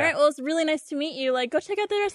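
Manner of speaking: polite brush-off. Retold or imitated. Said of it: "certain cues on how to deal".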